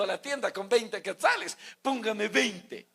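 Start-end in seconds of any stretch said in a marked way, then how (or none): 1.8-2.9 customer at shop. Retold or imitated. Asking shop clerk for top-up.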